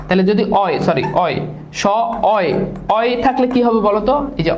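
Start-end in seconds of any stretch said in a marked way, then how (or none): 1.8-2.5 শয়ন opened as "স", pause, "অয়"; syllable-split pronunciation. Shown as a demonstration. Teacher clears up confusion over শয়ন, syllable-split pronunciation. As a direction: give "অয়" on its own after "স". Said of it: "অয় উচ্চারণ হচ্ছে".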